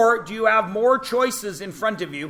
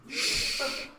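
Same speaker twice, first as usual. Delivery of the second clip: breathy whispered shh to hush the room; quick whispered hush at students; shushing; 6 semitones higher, 10 dB quieter than usual. Real, not acted. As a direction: hush the class with a soft shh. Teacher hushing the class.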